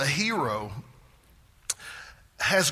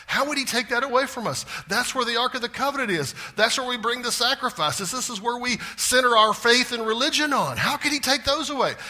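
higher, pleading protest; outraged people of Judah; 5 semitones higher than usual. Retold or imitated. People of Judah protesting God would destroy their temple, higher and indignant. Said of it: "They're going".

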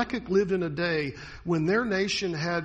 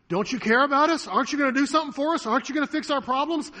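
much higher, louder, fast pleading; pleading demand; 8 semitones higher, 5 dB louder, faster than usual. Retold or imitated. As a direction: rush the questions at God. Voicing Habakkuk's demand to God.

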